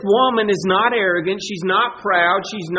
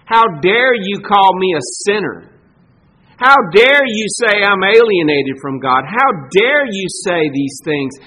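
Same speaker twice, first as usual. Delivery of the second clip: mock indignation; 5 dB louder than usual. What she doesn't say to Jesus, indignant. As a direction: puff up with wounded pride. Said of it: "She doesn't say".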